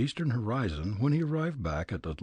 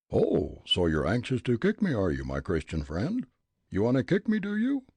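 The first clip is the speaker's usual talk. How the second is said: put-on furious old man; 4 dB louder than usual. Old gent declaring himself mad to Fritz, blustering. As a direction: rage like a riled Leadville miner.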